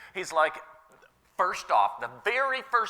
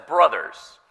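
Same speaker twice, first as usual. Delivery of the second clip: retold calling out; 3 semitones lower, 8 dB louder than usual. Apostle addressing the brothers.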